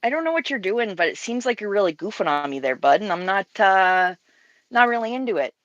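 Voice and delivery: folksy Canadian accent. Shown as a demonstration. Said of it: "the Canadian accent nailed".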